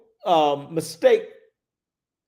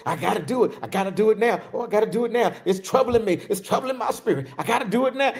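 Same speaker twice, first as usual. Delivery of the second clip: higher, urgent repeated pleading; imitating the ego voice; 4 semitones higher, much faster than usual. Preacher voicing the ego's urgent nagging, mild mock urgency. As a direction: play the nagging inner push. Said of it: "you got that voice".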